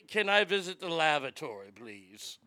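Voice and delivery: mock posh request. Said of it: "Uh, uh, oh".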